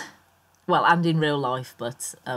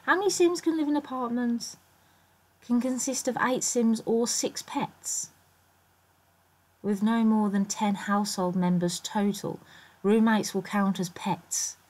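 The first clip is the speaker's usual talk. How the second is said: higher-pitched read-out of a search result; reading aloud; 8 semitones higher than usual. Real, not acted.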